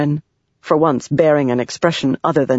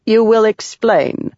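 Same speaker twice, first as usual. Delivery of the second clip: commanding; 5 semitones higher, slower than usual. Acted. Navani confronts Sadeas.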